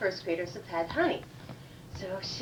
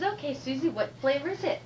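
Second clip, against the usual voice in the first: lightly voiced teacher, pitched up; encouraging teacher; 5 semitones higher than usual. Teacher asking Susie the flavor, lightly encouraging. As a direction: coax the child with a lifted voice.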